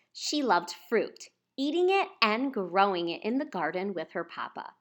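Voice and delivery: ordinary delivery, nothing marked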